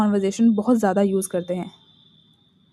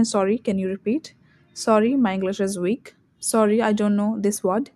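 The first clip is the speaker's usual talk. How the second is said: slow apologetic example; much slower than usual. Shown as a demonstration. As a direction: model the over-apologetic habit slowly. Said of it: "जैसे कि हम कई बार sentence बोलते हैं". (धीमे, माफ़ी माँगते हुए)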